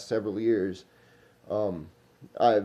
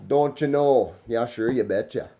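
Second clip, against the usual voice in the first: put-on light folksy Minnesota accent on the stock phrases. Teasing how older Minnesotans talk, a light Minnesota accent. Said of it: "Some people talk like that".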